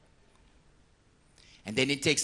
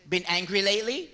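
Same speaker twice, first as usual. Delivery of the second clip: priest's probing question; 5 semitones higher, 4 dB louder than usual. Retold or imitated. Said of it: "I says".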